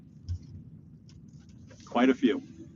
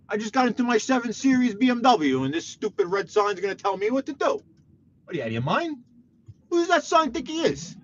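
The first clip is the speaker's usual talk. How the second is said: mock road rage; 8 semitones higher than usual. Real, not acted. Ranting at a stop sign.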